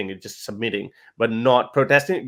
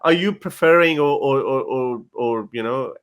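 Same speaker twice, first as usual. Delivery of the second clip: indignant protest. Retold or imitated. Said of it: "They'll be like".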